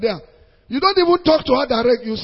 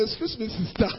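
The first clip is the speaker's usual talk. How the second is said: softer "excuse me, sister" called out; soft mock call; 6 dB quieter than usual. Preacher acting a man with a car calling the lady, soft call. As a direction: call her over lightly.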